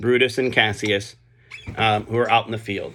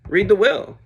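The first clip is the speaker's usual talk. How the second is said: crowd demand; 9 semitones higher, 4 dB louder than usual. Retold or imitated.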